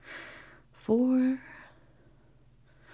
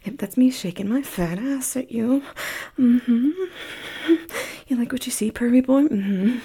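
playful, louder taunting; teasing; 6 dB louder than usual. Acted. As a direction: tease him playfully. Teasing the listener.

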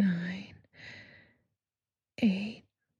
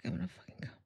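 low, soft warning; hushed urgency; 4 semitones lower, 9 dB quieter, much faster than usual. Pretend. Performer warning a partner, hushed and low. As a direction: say it low under the breath. Acted climax, first take.

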